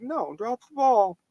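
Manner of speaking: dog arguing over the tennis ball, whiny and high; high slow whiny dog voice. Retold or imitated. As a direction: drag it out like a whiny pup. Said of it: "He's like".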